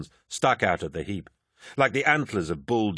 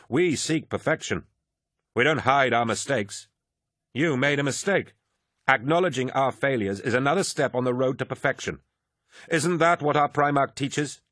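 put-on higher-pitched, insistent young zealot; earnest proud warrior; 5 semitones higher than usual. A narrator's reading. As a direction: press the creed on a doubting comrade. Voices Lucius reciting the legion's creed.

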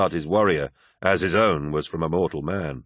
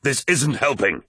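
slow, higher-pitched urgent appeal; crying out; 6 semitones higher than usual. A narrator's reading. Loken to First Captain choking the apothecary, crying out. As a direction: plead firmly, spacing the words. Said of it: "cried Loken".

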